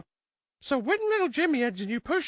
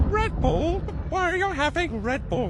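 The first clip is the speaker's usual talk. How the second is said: shocked mother; 4 semitones higher than usual. Acted. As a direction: catch him red-handed. Mother discovers the Red Bull.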